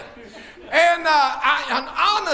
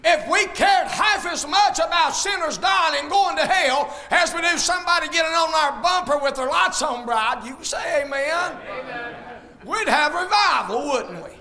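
fiery preaching. Acted. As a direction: preach it out to the whole church. Preaching to the congregation.

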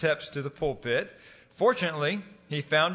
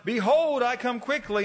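high, loud fervent shout; shouted with fervor; 8 semitones higher, 3 dB louder than usual. Retold or imitated. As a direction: belt it out like a desperate preacher. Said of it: "with great fervor he shouted out".

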